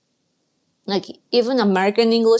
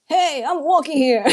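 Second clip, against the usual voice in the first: raised, louder mock yell; imitated yelling; 6 semitones higher, 4 dB louder than usual. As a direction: playfully imitate a friend yelling out. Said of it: "kept yelling".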